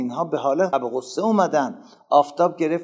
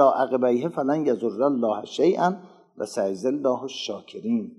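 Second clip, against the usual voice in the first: Quran recitation; 3 dB louder than usual. Acted. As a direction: intone the verse as in recitation. Recites Quran verse again.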